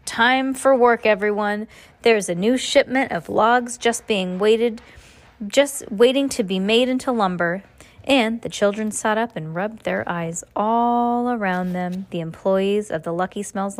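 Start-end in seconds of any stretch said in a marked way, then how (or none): 0.0-7.6 muffled foreman voice. Acted. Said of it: "as if he were covering his mouth with his hands".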